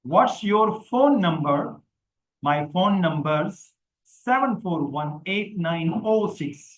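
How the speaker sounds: very slow and careful; slow model read. Shown as a demonstration. Teacher models the phone number question slowly. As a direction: spell it out slowly for learners. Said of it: "पढ़ के सुना देता हूँ".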